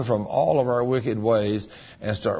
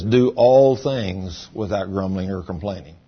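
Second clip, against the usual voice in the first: verse read out louder, bearing down on ALL; preaching the verse to the crowd; loud scripture reading; 3 semitones lower, 4 dB louder than usual. Shown as a demonstration. Preacher reading Philippians to the congregation, loud and emphatic. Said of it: "it says".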